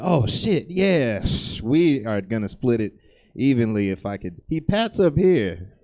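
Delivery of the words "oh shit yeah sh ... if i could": louder flustered uncle; mock uncle dodging the bill. Uncle stalling when the bill comes, loud and flustered. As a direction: fake a fumble for the wallet, loud. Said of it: "He's like".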